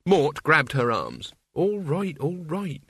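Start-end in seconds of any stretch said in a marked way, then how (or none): 1.5-2.8 mildly soothing reassurance. A narrator's reading. Mort calming upset Isabel, attempted soothing. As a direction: try to calm someone upset. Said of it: "as soothingly as he could manage".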